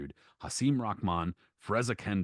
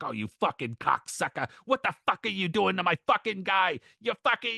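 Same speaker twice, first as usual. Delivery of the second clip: cornerman barking insults, rising higher and louder; 10 semitones higher, 3 dB louder than usual. Retold or imitated. Trainer barking curses at the referee, imitated furious bark. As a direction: snarl it at the ref like an angry trainer. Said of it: "barking at the referee like".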